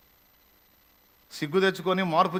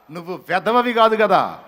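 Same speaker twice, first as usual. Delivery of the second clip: slow, louder rebuke; speaking loudly; 6 dB louder, slower than usual. Real, not acted. Preacher rebuking young people, slow loud scolding. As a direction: scold them slowly and firmly. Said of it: "కొంచెం గట్టిగా మాట్లాడుతున్నా".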